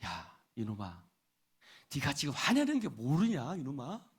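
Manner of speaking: low, indulgent fatherly chiding; 타이르는 아버지. Acted. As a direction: gently scold a foolish son, as if patting his back. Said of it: "등을 툭툭 두드리면서". (낮은 목소리로 다독이듯 타이르는 아버지)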